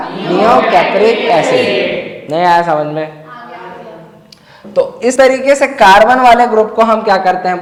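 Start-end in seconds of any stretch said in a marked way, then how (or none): 0.1-2.3 neo कैप्रिक acid said slowly; teacher dictating the acid name slowly; slow dictation. Shown as a demonstration. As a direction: stretch each word for the class. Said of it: "क्या नाम हो जाएगा?".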